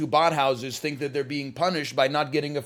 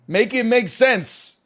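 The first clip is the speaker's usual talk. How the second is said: higher, louder and slow, each word pressed; loud demand; 9 semitones higher, 6 dB louder, slower than usual. Shown as a demonstration. Reading a chat request aloud, loud slow exasperated plea. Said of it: "Just Impression dash eighteen forty-three".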